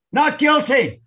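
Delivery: high, drawn-out comic cry; mock protest. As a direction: cry innocence at high pitch. Signature read as comic plea.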